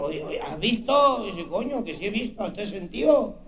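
lightly hammed Castilian whispers; a hint of a Spaniard's voice; mock Spanish accent. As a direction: gossip like two Spaniards at the urinal. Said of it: "le dice el otro".

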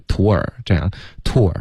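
"tour" run smoothly from oo into r; one connected syllable. Shown as a demonstration. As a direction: glide through "tour" without two separate syllables. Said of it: "可是会比较连贯一点". (把"tour"连贯地读成一个音节)

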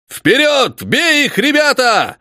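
rally the men to attack; roaring charge. A narrator's reading. Colonel leads the charge on the flèche, roaring. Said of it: "заорал полковник".

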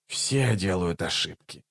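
low, soft muttered remark. A narrator's reading. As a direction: mutter it under the breath. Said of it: "пробормотал Раллик". (тихо пробормотать)

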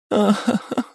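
звонкий высокий смех; смеётся до слёз; ringing laugh. Acted. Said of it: "Звонко засмеялась Хатару". (звонкий смех сквозь слёзы)

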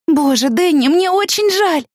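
high, tearful sorry; grieving apology. A narrator's reading. Woman telling friend she's sorry, tearful high plea. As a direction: reach him through your own grief. Consoling Danny in grief.

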